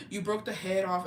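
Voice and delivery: gasp, then a mock-shocked statement. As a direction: retell a child's startled discovery. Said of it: "And I was like".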